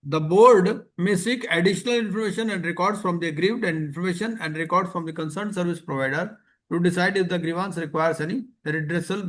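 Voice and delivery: reading the rule word by word, very slowly; slow regulation reading. Acted. Teacher reading gift rules to class, slow and deliberate. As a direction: dictate the regulation so students can follow.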